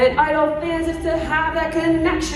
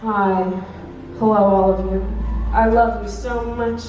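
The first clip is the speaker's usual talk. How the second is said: idol greeting fans; 4 semitones lower than usual. Shown as a demonstration. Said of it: "That means waving to the crowd".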